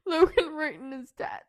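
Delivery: fighting back real tears; real crying, half laughing; choked up. Real, not acted. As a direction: say it as the tears break through. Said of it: "I am having a hard time speaking".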